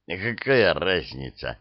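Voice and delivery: gloomy low grumble; мрачно буркнуть. Acted. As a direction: grumble it darkly. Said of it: "мрачно буркнул аферист". (мрачно, себе под нос)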